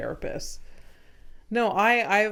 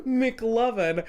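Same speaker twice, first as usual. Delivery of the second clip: angry friend quote; 4 semitones higher, 4 dB louder than usual. Retold or imitated. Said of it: "He's like".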